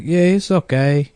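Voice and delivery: Mexican-accented reassurance, lightly put on. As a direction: imitate a casual Mexican landlord's accent. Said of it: "like, Mexican guy showed me the place".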